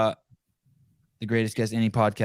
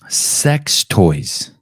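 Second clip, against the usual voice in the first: put-on Sex toys repeated louder in a Boston accent; lightly mimicked Boston accent; mock Boston accent; 8 dB louder than usual. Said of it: "that's a Boston accent?".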